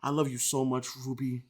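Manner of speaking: soft mock lovestruck plea; mock tender. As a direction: coo the apology softly. Reading fan's apologetic love text.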